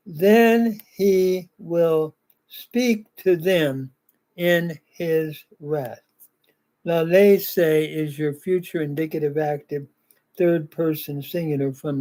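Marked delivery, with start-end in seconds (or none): 0.1-6.0 "Then he will speak to them in his wrath" read slowly, word by word; slow careful reading. Shown as a demonstration. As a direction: read the translation slowly for the class. Slow first reading of translation.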